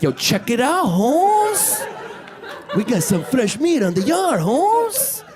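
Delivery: high cholo-style gang voice; chihuahua gang member. Retold or imitated. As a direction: call out to the crew about the new guy.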